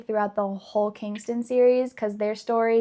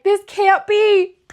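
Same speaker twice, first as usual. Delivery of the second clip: put-on reliving teenage shock in a raised, high voice; disbelieving cry; 10 semitones higher, 7 dB louder than usual. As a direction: plead with the book that it can't be true. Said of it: "you're just like".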